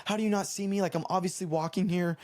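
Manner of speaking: mild imitation of angry screaming; retold angry screaming. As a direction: imitate an outraged pedestrian cussing someone out. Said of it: "screaming at me, cussing me out".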